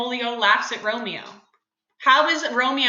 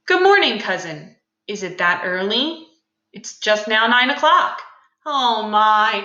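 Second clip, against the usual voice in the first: reading the script aloud for the class; dramatic play reading. Acted. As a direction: read the scene out with feeling.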